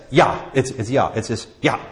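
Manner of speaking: "ja" said as yah; German ja. Shown as a demonstration. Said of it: "German name for yes".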